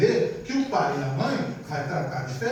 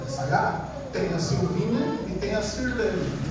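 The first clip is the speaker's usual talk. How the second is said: ordinary talk, nothing marked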